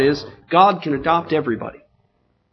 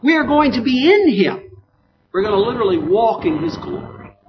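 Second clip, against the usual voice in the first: raised pitch, forceful sermon delivery; emphatic preaching; 8 semitones higher, 4 dB louder than usual. Real, not acted. Preacher telling the congregation God will live with man, emphatic preaching. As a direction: drive each phrase home to the congregation.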